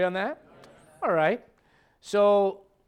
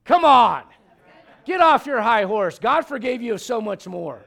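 much louder, higher preacher's rebuke; real preaching outburst, louder and higher; getting loud; 5 semitones higher, 9 dB louder than usual. Real, not acted. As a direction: call them off their high horse at full voice. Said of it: "Why are you getting loud?".

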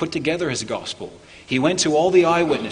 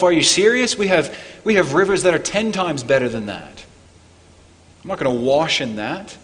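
indignant outburst. Retold or imitated. Enraged Naaman scoffing at the stinky Jordan, mock-indignant. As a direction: retell an offended man scoffing at the muddy river. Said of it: "And he's enraged".

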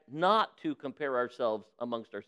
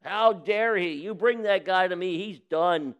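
indignant; 3 semitones higher, 4 dB louder than usual. Retold or imitated. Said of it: "David gets all indignant".

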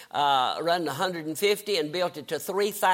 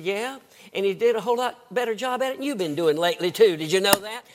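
quick, pert comeback; teasing wife; 2 semitones higher, faster than usual. Retold or imitated. Wife needles her preacher husband about his preaching, brisk. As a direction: needle him with a brisk wifely retort.

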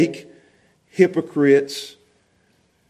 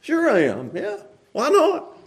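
soft, easygoing yes, lifting high at the end; smiling reply; 6 semitones higher, 5 dB quieter than usual. Shown as a demonstration. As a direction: answer anger gently with a smile. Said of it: "Smile and say".

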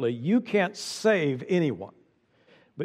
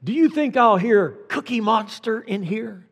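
put-on higher, coaxing doctor teasing a child; playful doctor; 6 semitones higher than usual. Pediatrician coaxing a scared boy, high and playful. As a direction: tease gently to ease the fear. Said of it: "Then he put his stethoscope".

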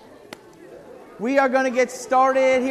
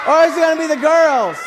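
loud fast street hustling; 4 semitones higher, 4 dB louder, faster than usual. Real, not acted. Hyping kids before penny march.

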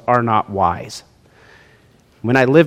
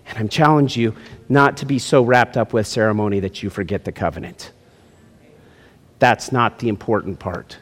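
hushed challenge; 5 semitones lower, 6 dB quieter than usual. Real, not acted. Drops to intimate challenge.

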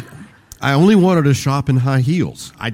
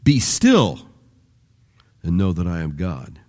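hushed "Be still" before a low close; whispered Be still; 5 semitones lower than usual. Shown as a demonstration. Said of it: "you put a different emphasis on each".

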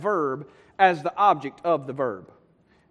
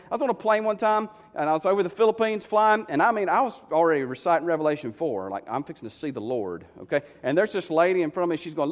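ordinary delivery

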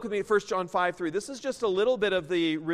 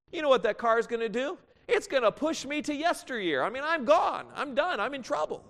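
higher, quick and animated; lively punchline; 5 semitones higher than usual. Real, not acted. Preacher tells the crowd the car wins, animated. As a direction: play up the disaster with rising energy.

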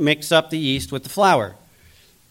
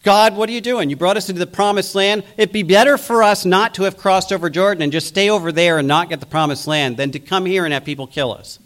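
higher, louder mock whine at God; retold Joshua wailing at God, higher and louder; whining Joshua; 4 semitones higher, 4 dB louder than usual. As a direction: complain like a frightened leader, lightly acted. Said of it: "And now Joshua's going".

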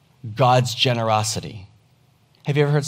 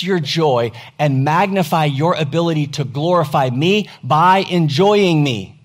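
raised, louder fervent promise as God speaks; voicing God's promise; 4 semitones higher, 6 dB louder than usual. Preacher voicing God's promise to the church, louder and fervent. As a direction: proclaim each never as God's own vow. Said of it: "a down payment to say".

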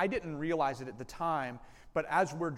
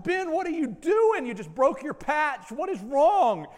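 alarmed call; 11 semitones higher, 8 dB louder than usual. Retold or imitated. Startled driver calls to nephew.

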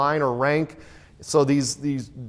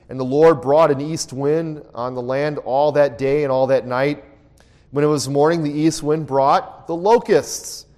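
scripture reading. Acted. Pastor reads Exodus locusts passage to the class, solemn reading. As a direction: read the passage out to the class with weight.

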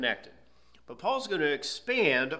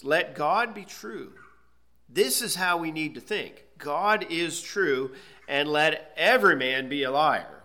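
commanding; 4 dB louder than usual. Retold or imitated. Preacher voicing Paul's command to the church, firm. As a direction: give it as a command from Paul. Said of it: "he's commanding us".

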